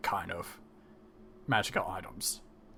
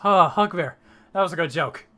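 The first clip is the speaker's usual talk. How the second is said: loud, raised, jovial dismissal; hearty amusement; 4 semitones higher, 7 dB louder than usual. Acted. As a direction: treat the threat as a great joke. Colm takes the threat as joke.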